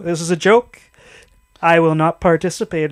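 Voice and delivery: put-on defiant refusal in a Middle Eastern accent. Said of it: "He has the same voice as the soup Nazi".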